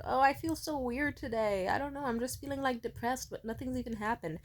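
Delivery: retold, lightly mopey admission. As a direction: act out a small vulnerable confession. Acts herself confiding low mood.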